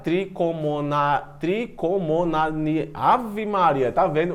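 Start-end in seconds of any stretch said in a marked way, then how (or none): 0.0-2.9 slow, halting syllables, broken off unfinished; stumbling pronunciation. Real, not acted. Teacher struggling with a scientific name before pupils, stumbling. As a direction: feel out the hard name and get stuck. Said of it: "Eu sou gago".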